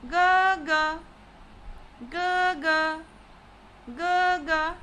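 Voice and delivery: "ga, ga" held high and even; high level tone on ga. Shown as a demonstration. Teacher showing elder brother, "ga, ga" in first tone. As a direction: chant "ga, ga" steadily on one note. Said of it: "high level tone".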